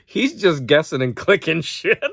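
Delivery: punchline with a laugh breaking in. Retold or imitated. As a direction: chuckle through the kid's line. Retelling the punchline, amused.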